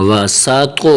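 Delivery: "تو" thick, with a slight echoing bounce; full-mouthed "تو" with qalqalah. Shown as a demonstration. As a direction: give the heavy "تو" in "وا سا تو" a light bounce. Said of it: "توا کو قلقلہ کے ساتھ ادا کرنا ہے".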